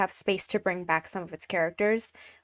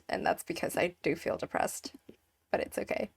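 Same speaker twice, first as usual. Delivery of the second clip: depressed; 10 dB quieter than usual. Real, not acted. Apologising for feeling depressed, subdued and trailing off softly. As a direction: let the energy sag as it goes. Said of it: "I sound really depressed".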